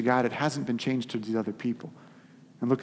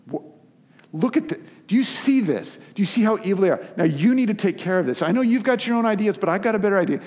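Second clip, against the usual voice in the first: much higher, louder, pushy tattletale voice; whiny demanding Jonah; 6 semitones higher, 5 dB louder than usual. Acted. Jonah pushing God to destroy Nineveh, high whiny demand. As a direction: nag God like a kid showing a video.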